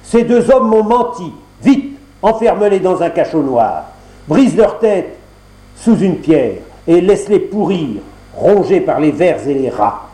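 colère aiguë qui retombe peu à peu; ordonne, furieux, puis plus posé; ordre en colère. Acted. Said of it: "cria-t-il". (le fils du roi ordonne au bourreau, colère qui s'apaise)

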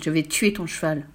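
understated villain's threat. Acted. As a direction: menace without raising the voice. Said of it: "cria-t-il". (menace contenue)

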